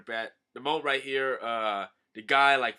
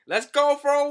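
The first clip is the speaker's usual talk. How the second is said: cartoon voice; 9 dB louder than usual. Shark voiced in high voice.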